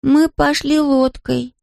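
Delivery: put-on high, slow small-child voice with a Scottish lilt; a toddler sure of himself, slowly; lightly Scottish young boy, proud and certain; confident little boy. A narrator's reading. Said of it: "с таким же жёстким шотландским акцентом".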